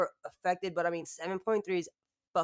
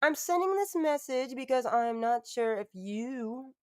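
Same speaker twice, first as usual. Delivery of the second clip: put-on high, louder slowed little-girl voice; mock Gypsy Blanchard voice; 6 semitones higher, 5 dB louder than usual. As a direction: play her sweet phone message. Impersonating Gypsy Blanchard message.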